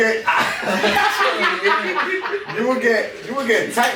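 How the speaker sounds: high, laughing through words. Real, not acted. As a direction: try to talk while cracking up. Laughing while talking.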